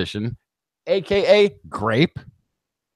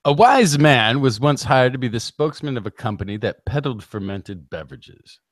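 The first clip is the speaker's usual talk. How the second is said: normal talking voice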